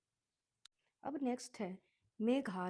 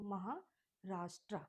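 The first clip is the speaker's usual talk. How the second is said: slow whole word. Shown as a demonstration. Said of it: "एक में learn कर लो".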